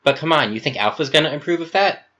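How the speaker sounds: high, loud protesting question; exasperated rising objection; incredulous. Acted. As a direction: challenge them in disbelief. Gamma challenges Epsilon's decision.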